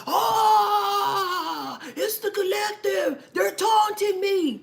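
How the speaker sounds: high, loud whining complaint; whiny mock victim. Mocking the angry person blaming the collective, whiny and high. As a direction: whine like you're being picked on.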